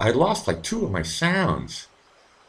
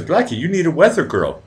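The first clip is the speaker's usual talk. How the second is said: reading chat quote; 9 semitones higher, 3 dB louder than usual. Retold or imitated. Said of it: "Kirk says".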